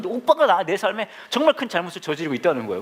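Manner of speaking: mock-angry, high-pitched retort; retold angry outburst. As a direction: imitate her heated accusation, half laughing. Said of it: "얘가 막, 막 화를 내면서". (버럭 화내는 말투를 높게 흉내)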